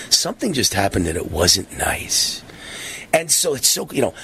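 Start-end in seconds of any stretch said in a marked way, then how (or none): 0.1-2.4 lightly voiced talking horse, a bit lower; Mister Ed voice. Host mocking a politician in a hint of Mister Ed. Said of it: "Mister Ed voice".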